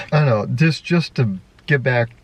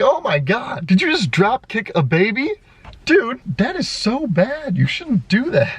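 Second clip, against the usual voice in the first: mock shock; 9 semitones higher than usual. Vlogger imitating her shocked self, high appalled disbelief. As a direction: gasp at the baby kicker in mock horror.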